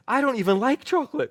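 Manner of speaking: high, loud laughing reply; cracking up. Retold or imitated. Client cracking up at her own answer, laughing. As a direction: blurt it out through a laugh. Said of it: "she cracks up".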